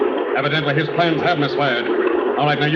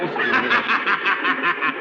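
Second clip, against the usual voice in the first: a bitter laugh that breaks out of nowhere; sudden laugh. Acted. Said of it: "Now, what's the joke?".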